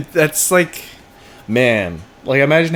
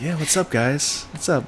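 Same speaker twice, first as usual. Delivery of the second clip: eager director; 6 semitones higher, 3 dB quieter than usual. Retold or imitated. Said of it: "And he's like".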